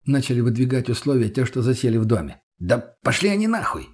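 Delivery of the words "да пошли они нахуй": indignant outburst. Acted. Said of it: "тут же возмутился Мутный".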